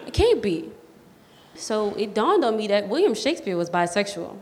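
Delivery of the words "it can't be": laughing. Retold or imitated. Laughing disbelief over the book.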